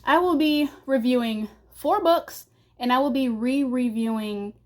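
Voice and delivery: slightly winded, catching breath; talking while a bit out of breath. Real, not acted. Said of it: "I don't know why I'm out of breath".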